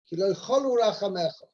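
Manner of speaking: "cholu" stressed on its first syllable, CHO-lu. Shown as a demonstration. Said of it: "emphasis on the first syllable".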